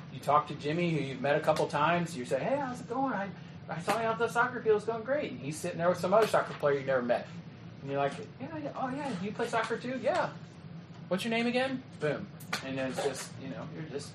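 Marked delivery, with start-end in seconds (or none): 2.4-5.3 higher-pitched, light chatty hello; friendly casual greeting. Acted. Leader greets a kid about the soccer field, friendly and casual. 8.4-11.8 higher, soft chatty voice; casual friendly interest. Acted. Leader meets a new soccer player, casually interested.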